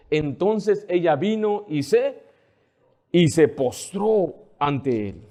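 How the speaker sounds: slow, drawn-out scripture reading; slow solemn reading of the verse. Shown as a demonstration. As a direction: lay each word down slowly. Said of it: "Note esa palabra postrar".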